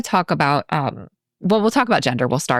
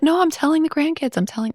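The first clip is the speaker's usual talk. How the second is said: higher, insistent voice of grandpa Sam; a grandfather insisting on telling the kids his story, pitched up; insistent old grandfather; 11 semitones higher than usual. Retold or imitated.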